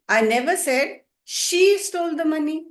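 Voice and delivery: emphatic high "she" after a small break; stress on SHE. Shown as a demonstration. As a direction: hit the word "she" hard. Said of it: "and she, when I stress them".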